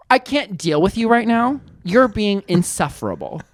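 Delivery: slow, imitated calm rebuke. Man rebuking Diane without raising his voice, very calm. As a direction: say it slowly and evenly. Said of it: "Just like that".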